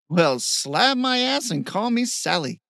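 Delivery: high, loud whoop of delight; excited shout. A narrator's reading. Steve on pulling a rock from the brook, excited shout. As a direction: holler it out, thrilled by the find. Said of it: "he shouted".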